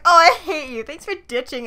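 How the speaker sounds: light playful I hate you; joking tone. Shown as a demonstration. Showing how he read the text jokingly. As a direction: toss it off as a joke. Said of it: "I like how he read that as like".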